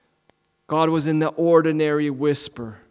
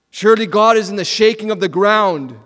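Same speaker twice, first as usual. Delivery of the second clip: louder, higher, sure God is coming; expectant; 4 semitones higher, 6 dB louder than usual. Retold or imitated. Preacher voicing Elijah's hope in the earthquake, eager. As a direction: lift it with hope.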